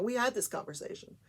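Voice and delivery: pushing back at the lawyer's repeated question. Retold or imitated. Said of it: "getting visibly upset".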